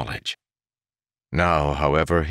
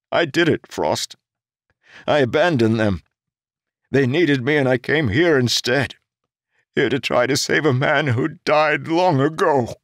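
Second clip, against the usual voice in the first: higher, louder, despairing outburst; anguished self-blame; 9 semitones higher, 5 dB louder than usual. A narrator's reading. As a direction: rip it out in guilt. Jarek blames himself, anguished.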